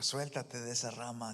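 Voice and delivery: grave, suave y pausada; voz de Dios. Retold or imitated. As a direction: habla con calma divina, en voz baja. God's voice speaking to Jack. (Dios le habla a Jack con voz grave y suave)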